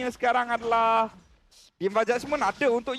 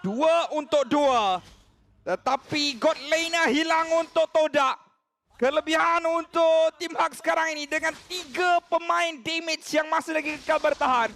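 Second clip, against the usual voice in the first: excited; 5 semitones higher, 3 dB louder than usual. Real, not acted. Caster calling fight outcome.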